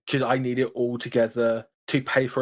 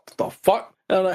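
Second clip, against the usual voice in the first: higher-pitched, acted-out bafflement; baffled disbelief; 6 semitones higher, 3 dB louder than usual. Reacting to a message from a stranger, baffled disbelief. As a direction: react as if utterly thrown by it.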